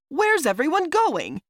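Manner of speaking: loud, very high threatening demand; rough, threatening. A narrator's reading. Roslo, gripping the narrator's arm, demands answers, threatening. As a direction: press the question as a threat. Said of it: "he said in a rough, threatening voice".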